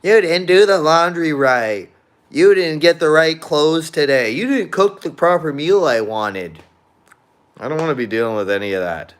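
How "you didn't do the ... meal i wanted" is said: mock nagging partner voice, pitched higher. Imagined partner nagging him about chores, higher mock whine. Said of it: "somebody else bitching in my ear".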